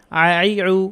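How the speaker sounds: আই, আই, রু run together without pauses; quick run-through. Shown as a demonstration. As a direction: link the three throat syllables in one go. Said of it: "দ্রুত করে বলার চেষ্টা করি".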